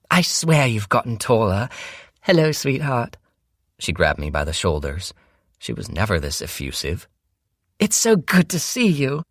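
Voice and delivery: overly sweet mother greeting her son; effusive mother. A narrator's reading.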